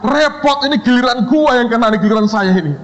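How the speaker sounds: high, worried grumble; panicked mumble. Retold or imitated. Second student fretting that his turn has come, high and anxious. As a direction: fret that it's your turn.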